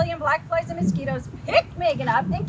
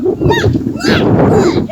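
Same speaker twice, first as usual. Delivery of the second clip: very high, loud disgusted yells; yelled yuck; 14 dB louder, much slower than usual. A narrator's reading. Megan yells at the bug spray, high loud yucks. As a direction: shriek yuck through the spray. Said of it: "Megan yelled".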